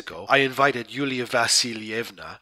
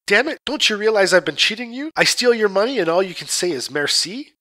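much higher, louder angry demand; furious shout; 8 semitones higher, 5 dB louder than usual. Acted. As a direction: shout it in fury at her. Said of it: "I was in a furious temper".

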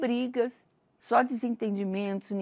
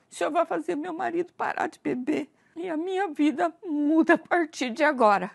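high, pleading and crying, louder at the end; crying prayer; 7 semitones higher, 3 dB louder than usual. Retold or imitated. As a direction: beg God through tears. Crying out her prayer to God.

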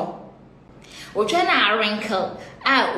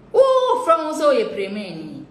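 slow and laughing, a touch higher; laughing jab; 4 semitones higher than usual. Real, not acted. Mocking a rival's looks, slow and laughing. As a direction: drag it out with a laugh.

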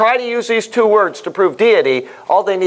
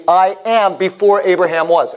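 "I am" stressed, leaning on "am"; emphatic quote. Retold or imitated. Teacher quoting Jesus's claim to the class, emphatic on "I am". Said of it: "He's saying emphatically".

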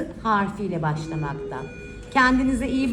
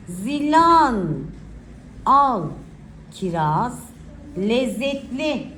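put-on slow, clear dictation for children; dictating; slower than usual. Shown as a demonstration. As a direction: read each word out slowly for writing. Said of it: "Okuyacağım cümleleri iyice dinleyin".

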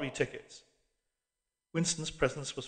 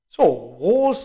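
vague; 3 semitones higher, 8 dB louder, slower than usual. A narrator's reading. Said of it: "said the old man vaguely".

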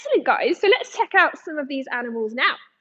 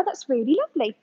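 whisper; faster than usual. Real, not acted. Soft aside praising child's drawing.

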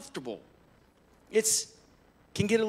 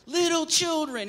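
higher and louder, a fond mother-hen cry; hen-like elder call; 10 semitones higher, 4 dB louder than usual. Retold or imitated. Old John calls his little children to him, high fond call. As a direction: call the flock in like a clucking hen. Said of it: "just like a hen".

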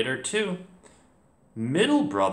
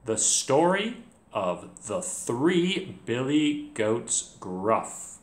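calm clear narrator voice; much slower than usual. Acted. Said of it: "my narrator voice is nice and calm and clear".

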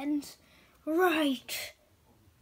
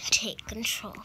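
whispered command; 3 semitones lower than usual. Acted. Villain command in toy battle.

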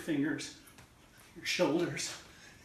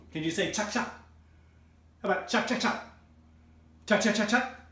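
rising higher and louder with each chak; building excitement; 5 semitones higher, 6 dB louder than usual. Shown as a demonstration. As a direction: build from calm to eager prompt. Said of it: "call and response, building up".

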